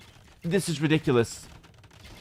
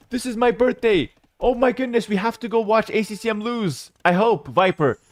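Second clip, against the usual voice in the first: giddy excitement; 5 semitones higher than usual. Real, not acted. Thrilled at news from chat.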